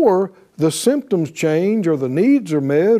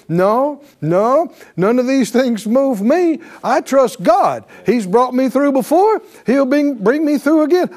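high, rising declaration of trust; a believer refusing to be moved; defiant faith; 6 semitones higher than usual. Pretend. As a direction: stand up through the tears and proclaim. Voicing a believer standing firm.

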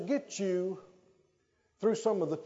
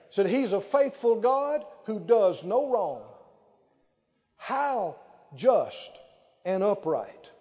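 ordinary talk

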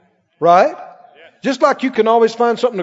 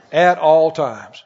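slow, deliberate answer; 5 semitones lower, much slower than usual. Shown as a demonstration. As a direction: spell out the answer slowly. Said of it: "He said, "I'll bless the Lord when?".

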